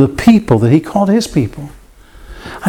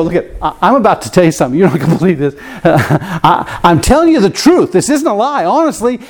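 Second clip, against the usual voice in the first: insistent truth-teller; 3 semitones higher than usual. Pretend. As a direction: swear it's the truth, almost laughing. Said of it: "I go".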